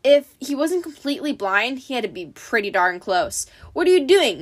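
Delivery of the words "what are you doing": loud, raised-pitch demand; gruff monster interrogation; monster's demand. A narrator's reading. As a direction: demand an answer loudly. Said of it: "the monster demanded".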